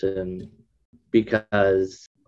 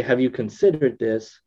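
soft; 3 semitones higher than usual. Shown as a demonstration. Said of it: "it's more softer and malleable".

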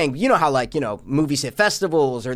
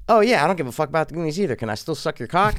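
fast fawning; much faster than usual. Retold or imitated. Mock sycophant reply.

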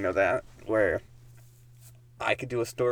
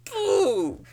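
shouting; 10 semitones higher, 7 dB louder, much slower than usual. Pretend. Bulldozer mock shout.

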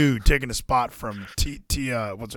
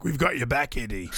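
lightly voiced Cesaro, dropping softer at the end; Cesaro impression; 2 semitones lower, 6 dB quieter than usual. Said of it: "That's my Cesaro impression".

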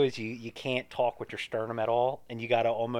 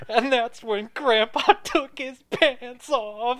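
slow, much higher and louder silly voice; high mock voice; 11 semitones higher, 6 dB louder, much slower than usual. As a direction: ham it up in a squeaky confession. Mock therapist confession, absurd voices.

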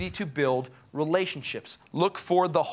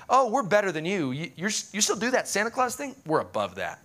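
condescending. Acted. Christian snubbing those who do Santa Claus, mock condescension. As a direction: look down your nose at them, mockingly. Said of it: "rude and condescending when you're like".

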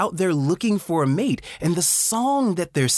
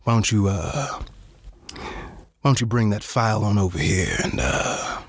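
a soul singer's voice; 7 semitones lower than usual. Acted. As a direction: croon it like a lovesick soul singer. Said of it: "That was my favorite cricket impression".

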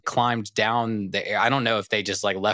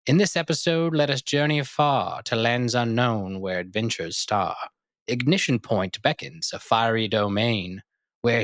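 Shakespearean sonnet recital. Acted. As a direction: declaim it like a theatrical bard. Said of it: "That was my, uh, Shakespearean sonnet intro".

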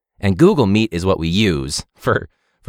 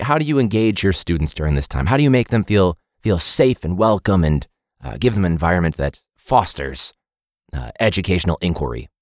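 flat monotone drone; 3 semitones lower than usual. Retold or imitated. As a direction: read it in a dull monotone. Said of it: "with the most monotone voice".

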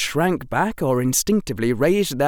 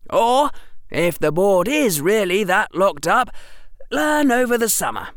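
put-on defiant boy's voice; 10 semitones higher, 4 dB louder than usual. A narrator's reading. Harry defies the teacher.

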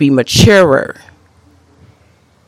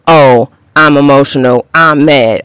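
mocking whine. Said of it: "Men will sit and be within their emotions".

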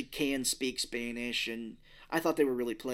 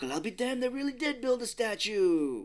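higher-pitched amazed exclamation; mock astonishment; 10 semitones higher than usual. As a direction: retell it as an incredulous character. Retelling a character's astonished reaction.

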